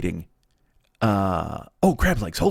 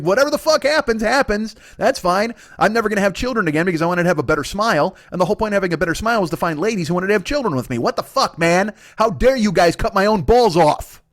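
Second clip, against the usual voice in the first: ranting patient; 5 semitones higher, 3 dB louder than usual. Retold or imitated. Dental patient ranting at staff.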